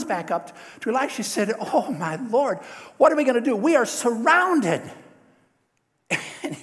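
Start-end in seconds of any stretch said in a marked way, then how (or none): 1.6-4.8 louder, rising alarm, drawing out surrounded; a frightened servant crying out for help; panicked servant. Retold or imitated. Servant panics, army surrounds them.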